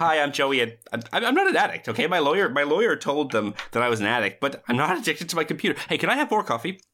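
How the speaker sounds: lightly voiced jittery defensive addict; jittery coffee addict. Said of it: "he's chain smoking and chugging coffee".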